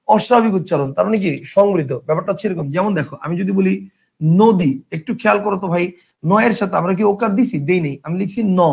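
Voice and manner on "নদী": নদী said "no-di", with an o; closed vowel in নদী. Shown as a demonstration. Teacher demonstrates the word for students, নদী as "no-di". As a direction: round the first vowel of নদী to o. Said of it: "ন এর উচ্চারণ ও এর মতো".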